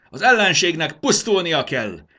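high shout building to a very long yell; loud war cry, stretched out at the end; battle cry. A narrator's reading. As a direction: rouse the army, then scream the charge. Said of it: "kiáltotta".

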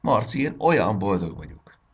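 high and loud with delight; the girl telling her friend, bursting with joy; overjoyed. Acted. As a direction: burst with happiness.

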